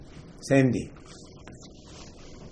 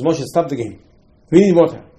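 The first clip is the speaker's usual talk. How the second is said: mild mock yell, louder at the end; retold scream; 2 semitones higher, 6 dB louder than usual. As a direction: imitate a crowd yelling, half-hearted at first. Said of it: "starts to scream at Moshe".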